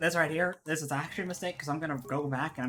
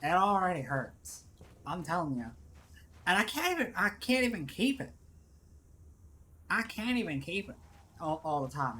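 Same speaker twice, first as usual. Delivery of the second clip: put-on labored Southern accent, complaining. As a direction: strain to keep up a Southern accent. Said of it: "to do this accent".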